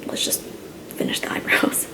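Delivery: slow soft whisper. Real, not acted. Whispered aside while working.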